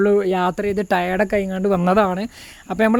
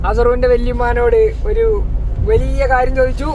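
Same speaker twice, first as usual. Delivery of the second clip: slow, drawn-out announcement; measured storytelling with suspenseful pauses; mock announcer; slower than usual. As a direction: present it like a grand report, playfully. Mock-announcer telling of the newcomer's doings.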